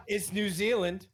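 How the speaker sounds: New Zealand, drawn out and falling; correcting the country. Real, not acted. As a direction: stress on Zealand, slow and firm. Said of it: "I know, but you can't find enough".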